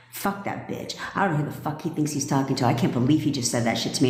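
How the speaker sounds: muttered, under the breath, then fast; mock inner rant. Girlfriend stewing after the argument, muttered mock anger. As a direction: seethe to yourself about him.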